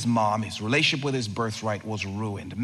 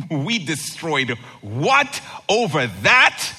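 incredulous laugh; 3 semitones higher, 4 dB louder than usual. Pretend. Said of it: "we said".

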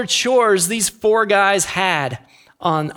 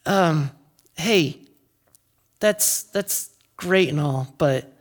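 lightly voiced, tentative objection; polite, mildly let-down complaint with pauses; hesitant paralyzed man; 3 semitones lower, 3 dB quieter than usual. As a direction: haltingly raise an awkward request. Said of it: "he might have been like".

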